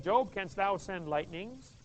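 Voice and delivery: God speaking. Acted. God's voice quoting scripture.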